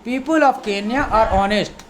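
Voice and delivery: very slow, careful teacher reading; slow model sentence. Shown as a demonstration. Teacher reads the example sentence slowly to students. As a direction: spell it out word by word. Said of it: "या फिर you know".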